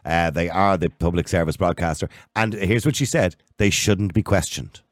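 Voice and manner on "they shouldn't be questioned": slow, deliberate read of her words; slow quoted words. Retold or imitated. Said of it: "That was her quote".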